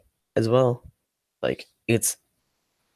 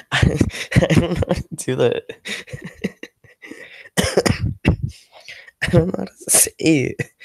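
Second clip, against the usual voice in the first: cute whine; 5 semitones higher than usual. Pretend. Playful whine to chat.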